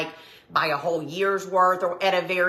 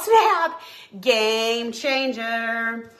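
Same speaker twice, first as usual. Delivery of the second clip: 興奮した声; excited exclaim; 3 semitones higher, much slower than usual. Real, not acted. Excited reaction to viewer tip.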